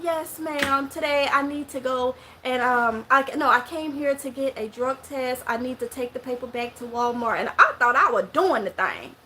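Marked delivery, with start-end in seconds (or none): 0.0-7.4 lightly put-on proper, polite voice; mildly careful speech, trying to sound proper. Mississippi woman asking for a drug test, lightly putting on a proper voice. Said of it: "I needed to put on my proper voice".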